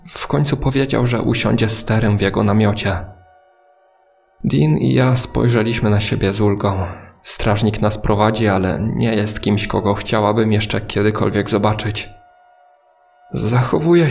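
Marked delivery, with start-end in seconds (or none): none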